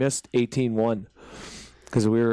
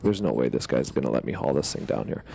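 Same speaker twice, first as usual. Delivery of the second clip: much lower, grumbling to himself; low inner thought; 10 semitones lower than usual. Retold or imitated. Eyeing the narrow stairs, lower and doubtful to himself. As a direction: mutter it deep and doubtful. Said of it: "I was like".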